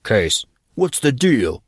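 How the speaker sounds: slow, angry, teeth clenched; through gritted teeth. Acted. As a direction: grind it out angrily. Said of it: "He spoke through gritted teeth, sounding angry".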